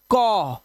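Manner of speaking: "कॉ", held open "o" vowel; AU sounded out. Shown as a demonstration. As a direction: say "कॉ" with a long rounded "aw". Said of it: "ध्यान से सुनो".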